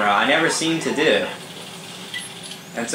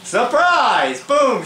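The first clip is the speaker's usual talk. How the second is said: mock announcer shout; 10 semitones higher, much slower than usual. Real, not acted. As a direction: sell the ambush like a punchline. Mocking the shotgun ambush.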